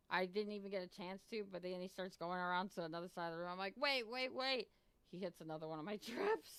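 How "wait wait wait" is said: higher, louder alarmed wait wait; alarmed calling out. Retold or imitated. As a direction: call out to stop him, half panicking. He walks into her traps.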